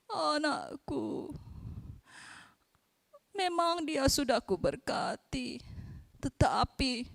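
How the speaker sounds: lightly voiced old father comforting gently; gentle father. Old father consoles son.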